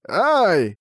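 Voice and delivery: high sharp yelp of pain; small creature cry; bat yelp. A narrator's reading. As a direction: squeak as the arrow hits. Bat hit by arrow.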